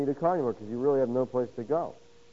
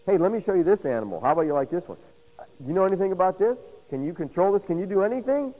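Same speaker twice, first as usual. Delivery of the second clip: challenging questions; 4 semitones higher, faster than usual. Retold or imitated. God challenging Job, acted out.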